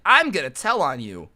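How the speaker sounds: mock tattletale threat, punched at the start; sassy. Rich kid threatening to tell counselors, loud and sassy. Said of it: "he's being all sassy".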